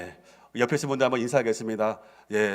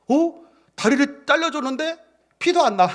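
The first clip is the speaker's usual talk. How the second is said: amazed cannibal; 13 semitones higher, 6 dB louder than usual. Acted.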